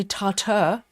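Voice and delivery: tartar with a reduced 'ter' ending; US northeast pronunciation. Retold or imitated. Reading a viewer from the northeast, US pronunciation of tartar as TAR-ter. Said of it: "part of the U S".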